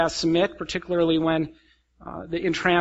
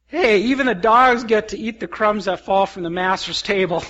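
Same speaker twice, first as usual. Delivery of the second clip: lightly voiced dog, a bit higher; cheeky dog quoting scripture; 4 semitones higher, 3 dB louder than usual. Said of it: "I replied for Comet".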